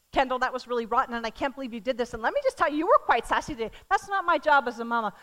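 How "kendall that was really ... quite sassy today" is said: mock scolding, quick and clipped; a mother nagging her daughter, fast; scolding mom. Mom scolding her daughter, lightly mocking. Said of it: "my job as a mama is to not say".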